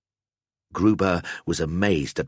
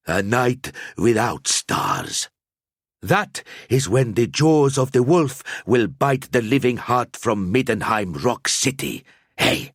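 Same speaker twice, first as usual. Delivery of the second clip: put-on ominous old seer; 5 semitones higher, 3 dB louder than usual. A narrator's reading. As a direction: paint a starless night. Seer describes starless night.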